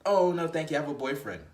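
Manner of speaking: a quick chirpy no thanks; woman politely refusing. Retold or imitated. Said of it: "And then she says".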